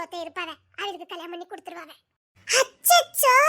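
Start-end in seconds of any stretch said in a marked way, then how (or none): 2.5-3.4 mock dismay with a laugh. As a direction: cry out "அச்சச்சோ" while laughing. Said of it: "சிரிச்சுக்கிட்டே அச்சச்சோன்னு சொல்லுத".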